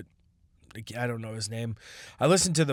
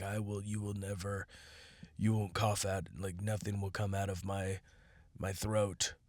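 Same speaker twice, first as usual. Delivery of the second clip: strained inner voice; 4 semitones lower, 9 dB quieter than usual. Retold or imitated. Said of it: "I'm just like".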